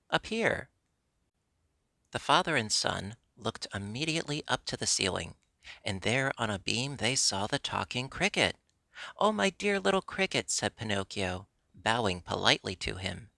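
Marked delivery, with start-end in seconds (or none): 0.1-0.7 up here called from high above, pitched up; a tiny creature calling down from a beam; little voice calling. A narrator's reading. Hidden cricket calls down. 9.2-10.5 Oh lifted high with glad surprise; delighted surprise. A narrator's reading. Pinocchio greets the cricket.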